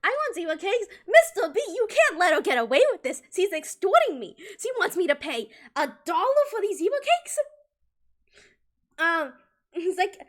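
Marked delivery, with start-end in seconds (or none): 0.0-7.4 put-on whiny kid complaint. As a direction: complain like a wronged kid tattling to the teacher. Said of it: "being like".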